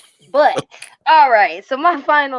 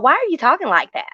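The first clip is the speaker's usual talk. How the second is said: imitated coworker; 3 semitones higher, faster than usual. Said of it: "little pale skin peep around, peek around the corner".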